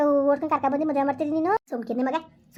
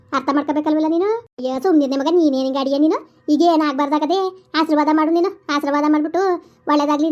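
loud furious cursing; angry scolding; 5 dB louder than usual. Acted. Mother loudly curses son and bans him from the house. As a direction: disown him, shouting.

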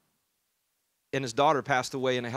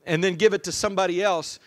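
put-on upset child; 4 semitones higher, 5 dB louder than usual. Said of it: "And she said".

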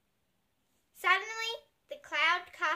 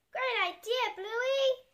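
excited praise; 9 semitones higher, 4 dB louder, slower than usual. A narrator's reading. Child character cheering friend.

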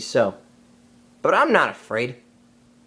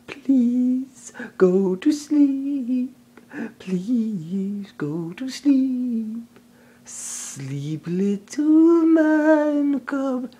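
hypnotic snake lull; slower than usual. Acted. Kaa hypnotizing Mowgli.

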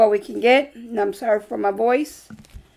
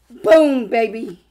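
excited; 6 dB louder, slower than usual. Real, not acted. Celebrating a scratch-off win.

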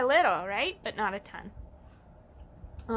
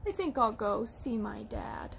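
softer, sinking, downcast storybook voice; sad duckling; 3 semitones lower, 3 dB quieter than usual. Acted. Ducky going to see dad, mildly sad. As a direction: let it droop, lower and quieter by the end. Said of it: "I'm feeling sad".

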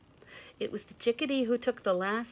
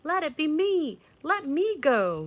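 eager fawn; 10 semitones higher, 9 dB louder than usual. A narrator's reading. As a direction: offer yourself eagerly. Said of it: "volunteered the fawn".

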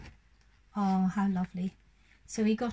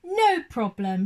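slow, louder confident shout; frog's cheerful slow shout; 3 semitones higher, 6 dB louder, slower than usual. Acted. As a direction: call it out boldly as the little frog. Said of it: "shouted Very Small Frog".

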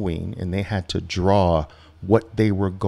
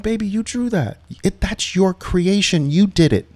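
amused dad; 10 semitones higher than usual. Retold or imitated. Father reassuring daughter about her own drawing, higher and amused. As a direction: gently point out she made it. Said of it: "I'm like".

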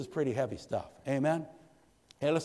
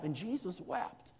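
softer and slow, almost breathed; hushed; 5 semitones higher, 7 dB quieter, slower than usual. Acted. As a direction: let it fall soft and slow after the storm. Hushed after the climax.

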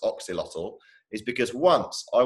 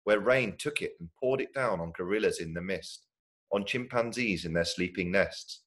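expressive read-aloud storytelling with lively swells; story narration. A narrator's reading. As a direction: read a story to children, savouring each phrase.

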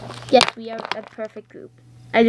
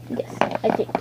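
unsure whispered aside; 5 dB quieter than usual. Pretend. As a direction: say it under your breath. Toy twin unsure.

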